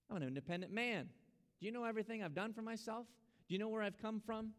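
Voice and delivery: acted-out proud boast, pitch rising on the questions; proud self-reliance. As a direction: play the proud, independent man challenging the listener. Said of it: "because of our pride".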